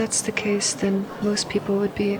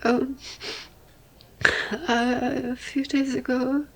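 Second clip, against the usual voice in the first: normal talking voice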